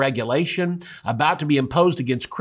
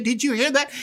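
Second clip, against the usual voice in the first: amused God; 9 semitones higher than usual. Retold or imitated. God repeats to Jesus.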